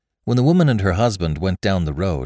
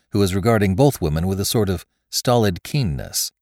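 ordinary delivery

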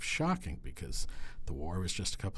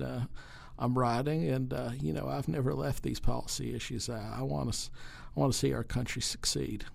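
a light Clinton impression; Bill Clinton; 4 semitones higher than usual. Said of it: "And now President Clinton".

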